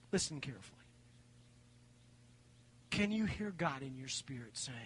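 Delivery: soft and low, inviting them to listen; quiet, intent lead-in; hushed. Real, not acted. Hushes congregation before the whisper.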